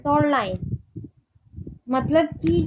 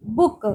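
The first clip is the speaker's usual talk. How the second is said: बुक with the closing क hit hard; बुक, weight on the last consonant; stress on final क; 3 semitones lower than usual. Shown as a demonstration. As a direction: punch the k sound that ends बुक. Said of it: "के पे stressed आ रहा है".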